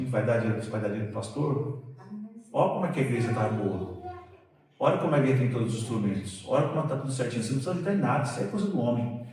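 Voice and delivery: voz baixa de pensamento interior, mais suave; pensamento sussurrado. Retold or imitated. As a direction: murmurar a tentação para si mesmo. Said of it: "vinha aquele negócio assim". (pensamento tentador dito baixinho)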